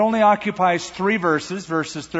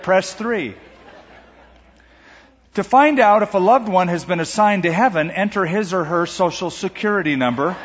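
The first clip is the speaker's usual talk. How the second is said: lightly mock automated phone menu. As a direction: read like a recorded hotline message. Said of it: "It might sound something like this".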